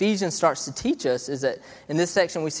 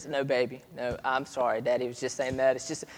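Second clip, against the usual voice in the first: tender apology. Retold or imitated. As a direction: reassure a small child gently. Father apologizes to daughter.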